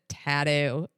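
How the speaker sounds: lightly imitated Australian "tattoo"; Australian accent. Retelling what the driver kept saying, light Australian accent. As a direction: mimic the driver's Australian "tattoo" mid-sentence. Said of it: "something about his accent".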